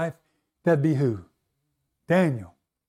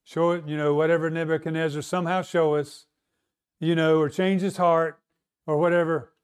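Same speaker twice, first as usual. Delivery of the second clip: half-hearted prayer. Retold or imitated. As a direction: toss off a lukewarm prayer with no urgency. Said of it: "not walking around praying just like this".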